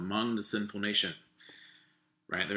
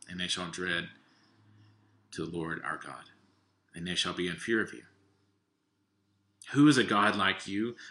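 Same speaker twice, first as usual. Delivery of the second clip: measured, solemn reading of scripture. Acted.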